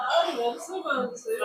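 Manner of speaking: slow, laughing through tears; half-laughing, half-crying. Real, not acted. Woman half-laughing, half-crying to the healer. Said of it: "அழுகாதம்மா".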